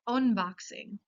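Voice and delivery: "unboxing" with its U said as O, onboxing; Spanish O vowel. Shown as a demonstration. Teacher showing the one exception, "unboxing" with initial O. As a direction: say "unboxing" starting on a rounded Spanish O. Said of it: "Imita claramente el sonido vocálico de la O".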